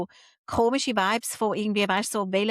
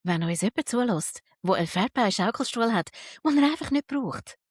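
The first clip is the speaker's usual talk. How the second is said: late night dj; 4 semitones lower than usual. Pretend. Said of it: "mit der Radiomoderatorenstimme".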